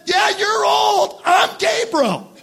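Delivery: emphatic retort, high and drawn out; Gabriel. Acted. Angel answering doubting Zechariah, emphatic. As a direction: play an angel pulling rank, slow and emphatic. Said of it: "also in the emphatic".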